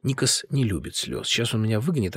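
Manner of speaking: ordinary delivery, nothing marked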